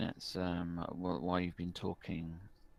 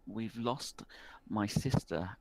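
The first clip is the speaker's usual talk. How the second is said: put-on a worried village boy pleading for help; young rural boy, worried; 5 semitones higher than usual. Rural boy explains his lost sister to the barkeep. Boy's voice, held.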